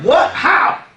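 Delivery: high, sudden, half-breathed what and how; startled question. Acted. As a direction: gasp it out in shock at the news. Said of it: "He said".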